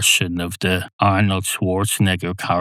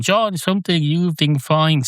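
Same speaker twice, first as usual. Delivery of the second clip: automatic police voice; 7 semitones higher than usual. Retold or imitated. Imitating Nigel Hawthorne's police announcer issuing a fine, high and robotic. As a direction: read it like a cold public address fine. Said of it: "the voice of the announcements".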